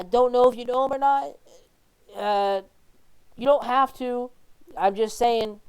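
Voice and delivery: put-on young boy. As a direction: call through a door as a boy, hesitantly. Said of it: "The young boy, uh, John".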